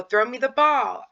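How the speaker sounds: sing-song parent cue; talking to a child. Shown as a demonstration. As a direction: coax the child to throw the ball. Parent directing child, example command.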